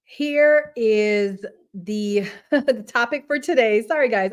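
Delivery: breathless after running; out of breath. Real, not acted. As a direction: talk while still catching breath. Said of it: "I'm so, like, out of breath".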